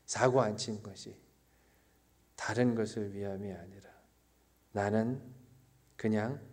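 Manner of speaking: 낮춘 소리로 띄엄띄엄 고백하듯; 조용히 자신을 돌아보는 설교자의 어조; 차분한 묵상조 설교. Real, not acted. Solemn reflection closing the sermon point. (나직하고 여유 있게 끊어 말하는 묵상)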